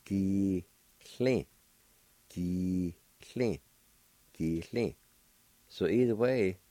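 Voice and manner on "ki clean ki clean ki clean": Ki, clean with a clear T L sound and no H; new pronunciation. Shown as a demonstration. Teacher showing the newer way to say dog, careful pronunciation. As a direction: model Ki, clean slowly for students. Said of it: "And it's pronounced like this".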